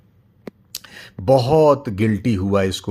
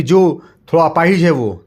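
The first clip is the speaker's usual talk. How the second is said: father explains; 7 semitones higher, 8 dB louder than usual. Acted. Father answers.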